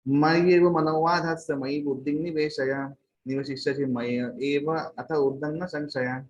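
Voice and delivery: slow, drawn-out Sanskrit recital; slow verse reading with a strong opening; verse recitation. Acted. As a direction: recite the scripture with long, sustained syllables.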